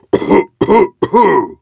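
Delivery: high, loud dragon coughing; hammed-up cartoon cough; acted choking cough. A narrator's reading. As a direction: cough up a mouthful of hair. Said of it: "Έβηξε ο δράκος φτύνοντας τρίχες".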